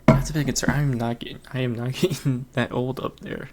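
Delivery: losing voice, a bit hoarse; strained, fading hoarse voice. Real, not acted. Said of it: "why am I losing my voice".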